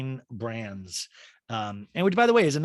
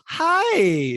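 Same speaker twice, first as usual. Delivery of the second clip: mock high greeting; 8 dB louder than usual. Diana greets at door.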